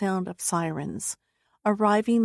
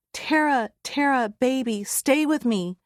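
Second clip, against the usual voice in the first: higher, urgent and pleading; mother on the phone begging her daughter, raised voice; desperate plea; 4 semitones higher than usual. Acted. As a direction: keep her with you, begging. Mother begging daughter stay conscious.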